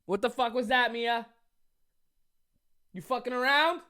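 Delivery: surprised at the cat's noise. Real, not acted. Talking to his cat Mia after a noise.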